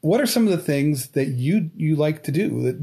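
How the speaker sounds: ordinary delivery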